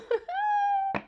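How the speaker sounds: very high squealing laugh; high-pitched squealing laugh; high shriek laugh. Real, not acted. Laughs at number mixup.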